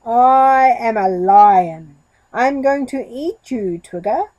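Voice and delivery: loud, slow mock roar of a goat. Goat threatening the giraffe, loud mock roar. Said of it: "Goat roared".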